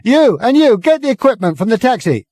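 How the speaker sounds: high, loud megaphone bawl; bawling through megaphone. Acted. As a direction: order the crowd about. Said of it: "bawling at the crowd through it".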